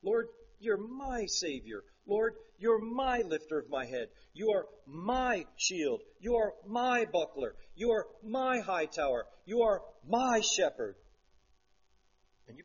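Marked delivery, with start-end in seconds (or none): 0.0-11.0 tender prayer demo. Shown as a demonstration. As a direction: pray it as your own. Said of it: "personalize it".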